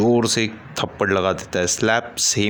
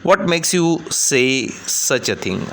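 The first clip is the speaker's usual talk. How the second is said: plaintive; 6 semitones higher, much slower than usual. Acted. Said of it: "plaintively".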